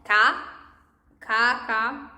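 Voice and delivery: "Ca" with a hard k sound; isolated, firm k syllables in "Ca, ca, ca"; strong C. Shown as a demonstration. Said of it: "it's gonna sound like strong".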